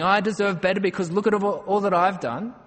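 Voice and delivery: mock entitled demand to God. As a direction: insist you've earned better. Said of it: "demanding our rights and saying".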